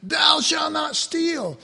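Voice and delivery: slow, booming commandment; stern commandment. Retold or imitated. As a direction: boom it out like a stern teacher. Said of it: "He says".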